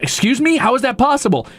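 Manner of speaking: appalled customer, voice lifted; indignant disbelief. Retold or imitated. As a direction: push back in mock outrage. Acted reply to bank refusal.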